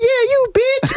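put-on squeaky, very high kid voice; pinched voice. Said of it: "I had the little kid voice too".

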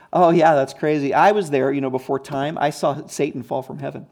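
casual, lightly tossed-off recollection; Jesus, offhand. Acted. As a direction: drop it in as if it were nothing special. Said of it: "No one just talks like that".

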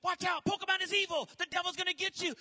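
mock warning. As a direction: scare the nephews half in jest. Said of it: "I used to tell my nephews".

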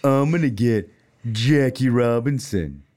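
mock boastful singsong of the kid; taunting kid. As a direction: imitate the kid bragging, drawn out. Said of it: "He was saying".

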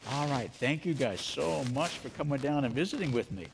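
muffled behind a face mask; talking through a mask. Real, not acted. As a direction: speak with a mask over your mouth. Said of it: "How can you speak, Echoes?".

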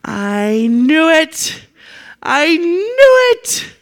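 building frustration. Acted. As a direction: build each repeat into an outburst. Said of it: "And Jonah says".

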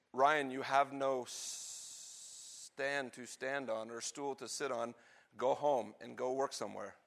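a hint of a judge handing down a ruling. Judge dismissing the son's case, stern. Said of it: "the judge would have said".

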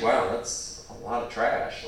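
low, slow mock disapproval; understated, drawn-out put-on dismay; judgmental neighbor. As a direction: lightly imitate a neighbor passing judgment. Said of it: "your neighbors might judge you".

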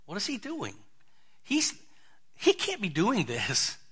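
hushed, stunned murmur; whispering disciples. Retold or imitated. Disciples whispering to each other, hushed shock. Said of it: "whispering to one another".

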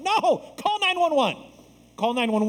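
high, loud burst with a laugh; emphatic no. Real, not acted. Pastor correcting the mock cover-up, loud and laughing. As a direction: break the act with a laughing shout.

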